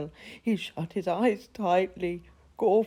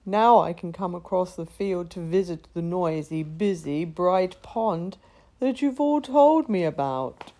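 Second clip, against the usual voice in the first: excited; 5 dB louder than usual. Acted. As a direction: bubble over with joy. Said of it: "shrieked Gorf with excitement".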